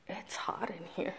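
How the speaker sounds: hushed aside under the breath; whispering. Real, not acted. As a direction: whisper it to yourself. Aside while touring, whispered.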